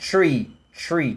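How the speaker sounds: "tree" with a plain T, no TH; the mistake to avoid; wrong "tree". Shown as a demonstration. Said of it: "Não é".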